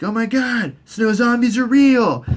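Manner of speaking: high-pitched imitated astonishment; mock shock. Cersei reacts to the zombie.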